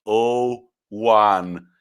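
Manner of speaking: loud, drawn-out hammed-up results read; imitating Ghanaian journalist. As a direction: belt out the score like an over-excited reporter. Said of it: "as he read that".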